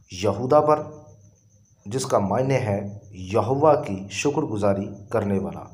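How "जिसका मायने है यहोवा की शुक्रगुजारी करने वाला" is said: ordinary delivery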